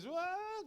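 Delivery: high wailing "waah"; high-pitched mock wail; imitated baby cry. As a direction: mimic a crying child. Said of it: "dia nangis".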